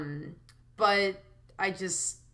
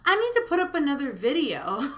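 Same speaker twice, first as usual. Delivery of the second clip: antsy; 8 semitones higher, 7 dB louder than usual. Retold or imitated. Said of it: "sitting here literally antsy thinking".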